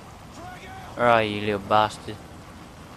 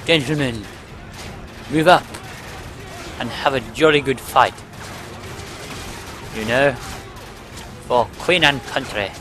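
mock posh officer rallying troops; posh British accent; 3 dB quieter than usual. Player rallying his gentlemen for Queen and country, mock posh accent. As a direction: put on a posh English accent, stately pauses. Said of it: "doing a good posh, posh impression there".

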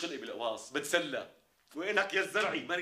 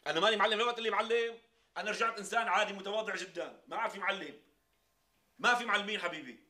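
excited; 11 semitones higher, 9 dB louder than usual. Acted. Protests being called boss.

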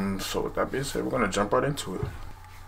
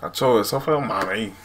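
Puerto Rican accent; slower than usual. Shown as a demonstration. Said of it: "I could be like".

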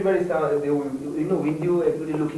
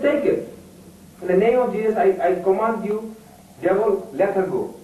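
commanding shout; 4 semitones higher than usual. Retold or imitated. Commanding the devil to leave mother.

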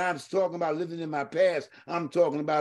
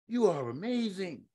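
much softer, intimate echo; soft repeat; 7 dB quieter than usual. Real, not acted. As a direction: let it sink in quietly. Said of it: "repeated affirmation, second take".

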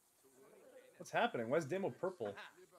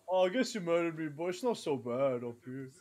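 badly faked British accent. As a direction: play a resigned British ghost. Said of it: "Dude, why am I British?".

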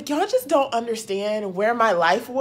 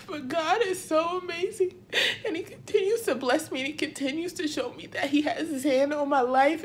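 tearful; 4 semitones higher, 4 dB quieter than usual. Real, not acted. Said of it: "These are happy tears".

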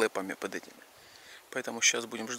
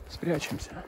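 whispering while hiding; 4 semitones higher, 5 dB quieter, slower than usual. Real, not acted. Hiding from horses.

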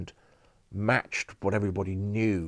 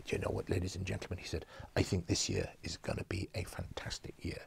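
put-on French accent; 9 dB quieter than usual. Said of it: "I'm gonna do a dreadful French accent now".

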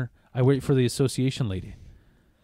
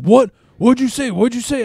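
much higher and louder, disbelieving; outraged shout; 10 semitones higher, 7 dB louder than usual. Retold or imitated. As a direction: fire it back like you can't believe your ears. Ex reacting to insult, retold.

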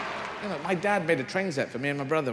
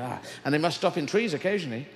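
ordinary talk, nothing marked

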